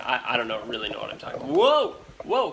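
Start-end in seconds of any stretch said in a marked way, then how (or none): 1.5-2.5 a sudden, much higher and louder yelp; real surprise, jumping in pitch; startled whoa. Real, not acted. Host startled as the camera glitches, surprised yelp.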